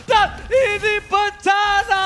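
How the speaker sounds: loud, high disaster call; excited shout. Real, not acted. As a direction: shout it like a huge upset.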